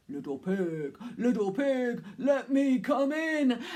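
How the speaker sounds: a lightly growled big bad wolf; growly wolf voice. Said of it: "in his growly voice".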